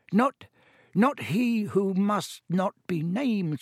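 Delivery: high, slow, timid house-elf; Dobby's squeaky elf voice. Acted. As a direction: squeak it out slowly, afraid to say the name. House-elf answering Harry's question.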